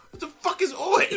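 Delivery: baffled high voice. Retold or imitated. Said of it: "kept throwing me off".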